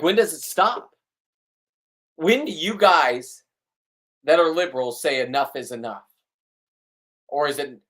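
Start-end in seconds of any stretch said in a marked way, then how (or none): 0.0-6.0 higher, exasperated demand; worked up, pitching the question higher; riled up. Real, not acted. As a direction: demand an answer, really riled up. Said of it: "gets me all riled up".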